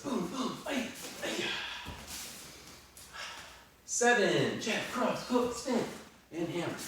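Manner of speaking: high, sharp count with strike grunts; boxing coach calling combos. Shown as a demonstration. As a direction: call the rep and hiss each hit. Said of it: "counting reps, strike shouts".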